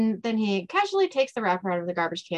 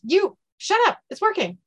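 acted excitement; 10 semitones higher, 4 dB louder than usual. Dean reacts as spell works.

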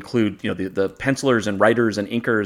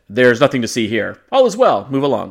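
mock official voice; 4 dB louder than usual. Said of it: "he could have also said".

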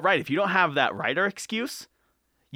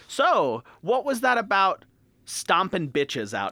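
prying aunt; 5 semitones higher, slower than usual. Retold or imitated. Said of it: "your Aunt Cheryl fucking asks you".

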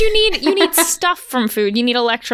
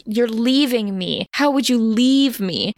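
slow, mildly melodramatic pleading; a touch of dramatic despair, slowed right down; dramatic Bella; slower than usual. Retold or imitated. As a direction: draw it out like a wounded heroine. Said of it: "It's very dramatic".

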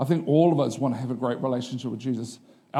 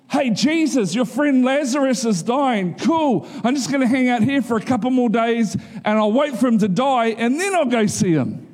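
mock casual; 7 semitones higher, 3 dB louder than usual. Mock disciples' message about Lazarus.

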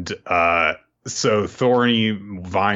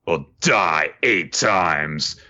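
mock villain line; 3 semitones lower, much slower than usual. Doubt's triumphant spell finish.

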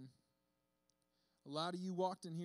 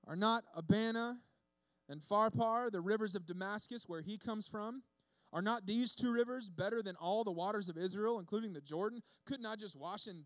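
angry boast; 3 dB louder than usual. Acted. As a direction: sneer at Israel's rivers. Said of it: "went away in a rage".

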